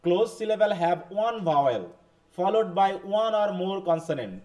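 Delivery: slow, carefully spaced English read for notes; slow dictation. Shown as a demonstration. Teacher reading the rule aloud to the class, slow dictation. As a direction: spell out the rule slowly so students can write.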